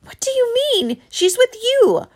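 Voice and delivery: high, loud panicked cry; frantic and scared. A narrator's reading. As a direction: blurt it out in terror. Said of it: "sounded frantic and very scared".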